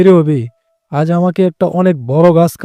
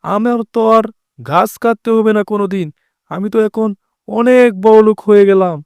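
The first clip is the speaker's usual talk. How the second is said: overjoyed; 3 semitones higher than usual. Acted. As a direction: burst with happy disbelief. Sees the treasure.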